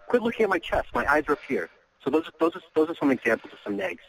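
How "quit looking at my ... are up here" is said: high, teasing mock complaint; playful mock scold. Shown as a demonstration. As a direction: tease her for staring. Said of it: "something like".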